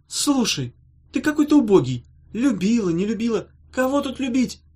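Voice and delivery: high, sharp irritation; irritated. A narrator's reading. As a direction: snap at him, annoyed. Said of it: "сказала Ната с раздражением".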